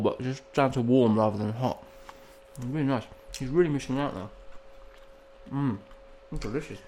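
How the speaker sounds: chewing between words; mouth full. Real, not acted. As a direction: talk through a mouthful. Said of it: "food in my mouth while I've been talking".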